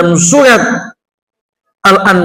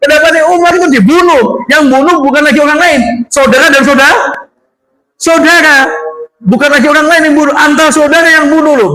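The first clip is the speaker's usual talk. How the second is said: emphatic dismay; 7 semitones higher than usual. Real, not acted. Emphatic, pitch raised, cry heard.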